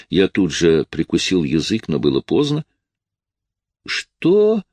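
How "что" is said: moaning through sobs. Acted. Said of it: "простонала Джин между всхлипами".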